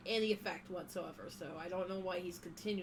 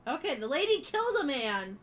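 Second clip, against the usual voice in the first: excited; 3 semitones higher, 6 dB louder than usual. Real, not acted. Reacting loudly to game scene.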